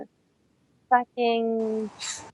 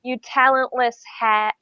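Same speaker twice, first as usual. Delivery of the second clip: sneering put-down; contemptuous insult. Acted. Original insult take.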